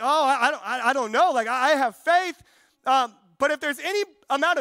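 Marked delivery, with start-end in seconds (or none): 0.0-2.4 doubtful listener. Pretend. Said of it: "a lot of you are like".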